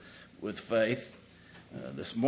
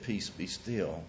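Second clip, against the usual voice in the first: calm command; 5 semitones lower, 8 dB quieter, slower than usual. Shown as a demonstration. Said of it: "Because he said".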